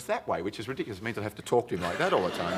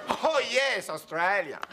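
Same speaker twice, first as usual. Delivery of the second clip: dismissive imitated star; 8 semitones higher, slower than usual. Nureyev voiced, dismissive.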